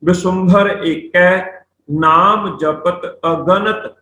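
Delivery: slow, measured verse reading; scripture recitation. Shown as a demonstration. Teacher reciting Gurbani to students, slow recitation. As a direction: read word by word, stretched out.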